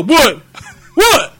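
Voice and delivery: put-on wide-eyed drunk what. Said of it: "you just go".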